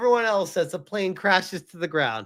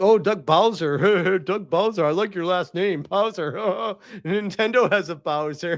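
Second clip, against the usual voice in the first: mock the fans sucking up to him; mock fawning shill. Streamer mocking shills praising Bowser, mock fawning. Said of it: "and be like".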